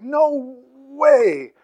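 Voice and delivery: high, loud, insistent refusal; an exaggerated, emphatic no way. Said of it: "it's the emphatic".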